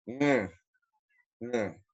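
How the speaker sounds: "Mm" as one short ng hum; single nasal sound. Shown as a demonstration. Teacher showing NG as one letter, short nasal hum. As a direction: hum "mm" softly from the back of the nose. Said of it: "tiene que tratar de ser un solo sonido".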